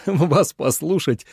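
slow, amused; laughing. A narrator's reading. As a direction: chuckle it out slowly. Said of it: "смеясь, сказал". (со смешком)

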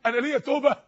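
man breaking down. Acted. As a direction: act the sinner stunned by hope. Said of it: "انا بتخيل الراجل ساعتها وهو بينهار". (تائب منهار يسأل بذهول)

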